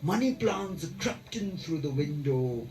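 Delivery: slow, measured poem reading with long pauses; solemnly paced verse recital; poetry recitation. Acted. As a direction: draw out the line endings, let each image land.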